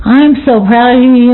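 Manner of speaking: mildly heartfelt praise in another woman's words; retold proud praise. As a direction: say it proudly, only slightly lifted. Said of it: "She's going".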